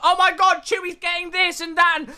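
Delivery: hammed-up breathless gossip voice; mock excited chatter. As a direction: play an overexcited fan imagining secrets. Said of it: "Don't get yourself like".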